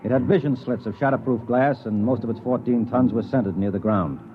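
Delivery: measured narrator voice over music; story narration. A narrator's reading. Clayton narrating the expedition, measured storytelling. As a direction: describe the land car like a tale unfolding.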